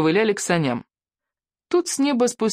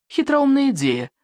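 emphatic; 8 semitones higher than usual. A narrator's reading. Narrator stresses the clever idea.

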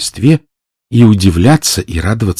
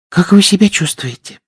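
smiling; 11 semitones higher than usual. Acted. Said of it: "улыбаясь".

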